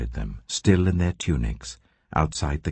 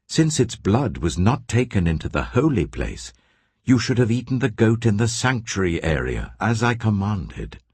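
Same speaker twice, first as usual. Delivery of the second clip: higher, indignant scolding of the sons; angry rebuke; 7 semitones higher than usual. Acted. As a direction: rebuke them sharply, voice raised in pitch. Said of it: "he was angry with Eleazar and Ithamar".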